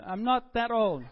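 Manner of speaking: loud, slow, emphatic declaration; declared firmly. Retold or imitated. Pastor repeating his retort to the clerk, slow and loud. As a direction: state it firmly, word by word. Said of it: "I declared".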